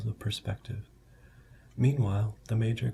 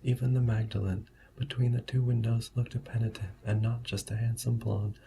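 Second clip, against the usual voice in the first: soft-spoken ASMR voice. Shown as a demonstration. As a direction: read softly and evenly like a bedtime ASMR story. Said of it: "I'm going to use more of a soft-speaking A S M R voice".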